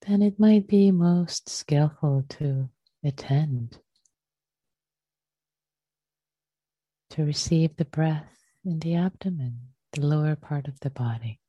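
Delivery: unhurried meditation teacher, leaving long pauses; guided meditation. Real, not acted. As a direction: gently guide them into the breath, phrase by phrase.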